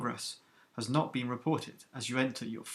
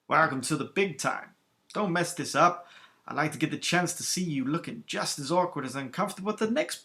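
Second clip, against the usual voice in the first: lightly voiced friendly teasing, a touch louder at the start; gentle ribbing; 3 semitones higher, 3 dB louder than usual. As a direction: rib the new pilot like an old friend. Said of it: "the gentle ribbon from Sol".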